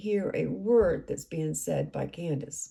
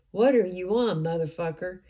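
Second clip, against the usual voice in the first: raised, confrontational retelling of a curse; angry retort; 4 dB louder than usual. Retold or imitated. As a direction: demand it with a loud edge. Retold hostile phone call.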